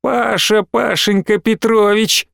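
a girl mocks her father's name; mocking. A narrator's reading. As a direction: drawl Пашенька Петрович like a taunt. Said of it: "закривлялась Алина".

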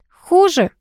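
high, dramatic lament; theatrical dismay, pitched well up; tragic exclamation. A narrator's reading. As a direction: exclaim it as a small tragedy. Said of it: "воскликнула Алка трагично".

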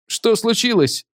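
вскрик, взлетающий высоко вверх; выкрикнуть в испуге, высоко; испуганный вскрик. A narrator's reading. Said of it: "вскрикнул Трауб". (испуганный пилот вскрикивает, высокий вскрик)

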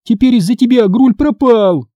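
high, loud accusing line; angry blame. Acted. Sister blames brother for the loss, angry. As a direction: throw the blame at him. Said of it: "вспылила я".

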